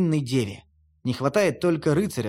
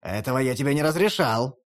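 indignant; 4 semitones lower than usual. Acted. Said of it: "возмущается Фенрир".

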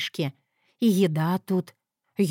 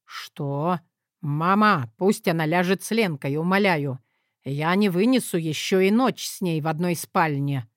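panic; 4 semitones lower than usual. Acted. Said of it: "В голосе великана паника?".

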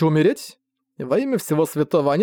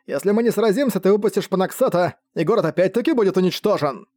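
raised, ringing call across the field; magically amplified call; 4 semitones higher than usual. Acted. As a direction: call out high to the enemy. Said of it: "усиленный магией голос Джернака".

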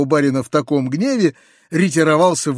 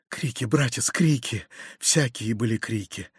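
weary and hushed; 4 semitones lower, 8 dB quieter than usual. Acted. Uncle recalls the uproar, subdued.

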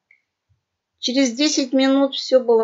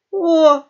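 1 grunt; 6 semitones higher, 8 dB louder than usual. A narrator's reading. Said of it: "хрюкнул Хрякер".

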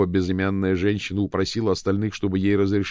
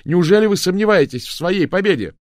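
loud, higher jeer; taunting shout; 12 semitones higher, 9 dB louder than usual. A narrator's reading. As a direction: goad him loudly. Daphne keeps shouting at Cox.

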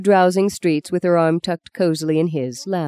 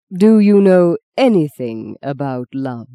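anything stressed, slow and louder, not love; force on anything; 6 dB louder, slower than usual. Acted. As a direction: punch the word anything in the question. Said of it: "he put the vocal force on anything rather than love".

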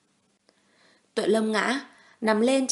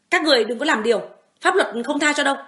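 frightened warning; 6 semitones higher, 6 dB louder, faster than usual. Acted. Woman defending herself.

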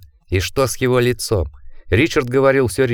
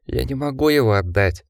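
a hint of a weeping small child; lightly voiced bewildered little boy, tearful; crying five-year-old voice; 3 semitones higher than usual. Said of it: "плачущим, недоумевающим голосом пятилетки". (слегка плачущий голос пятилетнего ребёнка)

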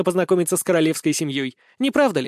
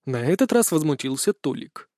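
plain reading voice

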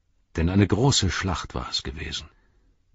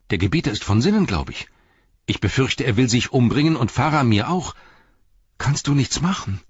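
frightened hobbit; 5 semitones higher, faster than usual. Acted. Frightened hobbit pleads with Gandalf.

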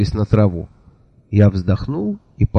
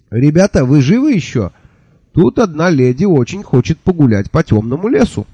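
raised voice, addressing the whole group; calling out; 6 semitones higher than usual. Acted. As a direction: hail the worn-out group. Narrator turns, hails exhausted policemen.

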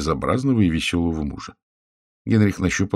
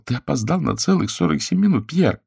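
trembling voice; 8 semitones higher than usual. A narrator's reading. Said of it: "Голос её дрожал".

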